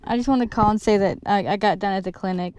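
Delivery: numb mouth after dental work; numb from the dentist. Real, not acted. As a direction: talk through a numb mouth. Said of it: "my mouth is numb".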